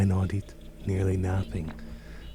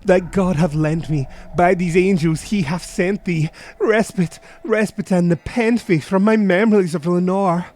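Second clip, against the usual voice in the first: loud, higher desperate plea; anguished crying out; 9 semitones higher, 4 dB louder than usual. Acted. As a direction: beg for forgetting of the lost Lenore. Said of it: "I cried".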